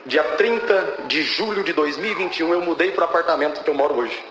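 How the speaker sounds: measured, spaced-out statement of the date; deliberate emphasis. Real, not acted. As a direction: take the date piece by piece for weight. Date said twice, first deliberately. (data dita pausadamente, com ênfase)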